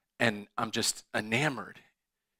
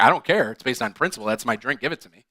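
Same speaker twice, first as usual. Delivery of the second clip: insistent demand; 7 dB louder, faster than usual. Retold or imitated. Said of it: "she's like".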